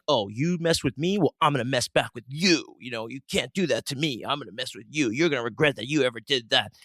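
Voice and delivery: mock tough-guy threat, sing-song swoops in pitch; show of force. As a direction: act out hollow bravado, pitch swinging up and down. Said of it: "seems like a show of force".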